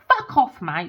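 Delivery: yelling at a teasing dream visitor; retold yell. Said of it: "I'll be like".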